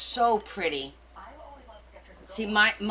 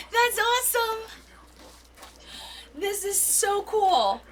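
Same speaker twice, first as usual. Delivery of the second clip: high delighted praise; thrilled at the gift; excited; 11 semitones higher than usual. Real, not acted. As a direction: gush with delight.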